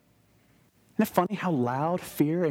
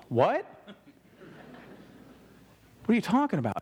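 higher, incredulous "What?" with a laugh; mock disbelief; 6 semitones higher, faster than usual. Disciple hearing Jesus's odd question, incredulous and higher. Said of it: "how would you hear that question".

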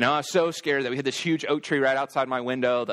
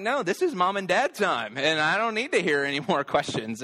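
mildly annoyed retold protest, higher at first; annoyed dad; 4 semitones higher than usual. Dad protecting mom and dad time from the kids, mildly annoyed. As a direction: play a fed-up parent lightly. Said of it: "level of annoyance and frustration".

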